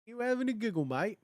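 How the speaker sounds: a hint of a bad English accent, cheeky; mock English accent, teasing. Streamer teasing chat in a bad English accent. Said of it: "nondescript bad English accents aside".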